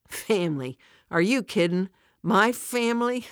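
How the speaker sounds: bitter disbelief. Acted. Joyce to Fran, asked about family help: bitter incredulous scoff. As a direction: scoff at the very idea, half laughing.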